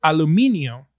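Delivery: "aluminio" stressed on MI, ending -io; Spanish pronunciation. Shown as a demonstration. Correcting the American word, "aluminio" the Spanish way. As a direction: say "aluminio" as a-lu-MI-nio. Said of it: "It's supposed to be aluminio".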